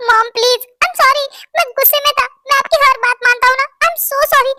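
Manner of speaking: begging hard not to be shut out; desperate apology. Acted.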